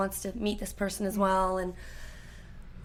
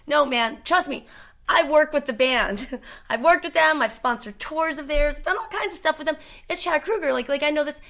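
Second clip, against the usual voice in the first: higher, louder mock protest; insistent arguing; 5 semitones higher, 4 dB louder than usual. Retold know-it-all at the bar, insisting he knows the band. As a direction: argue your case emphatically, voice raised. Acted argument over the name.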